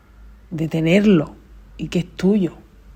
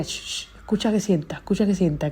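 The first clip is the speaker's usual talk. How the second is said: hushing grandma impression. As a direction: hush the room like grandma at the TV. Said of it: "ella veía la tele y decía". (abuela mandando callar, en voz baja)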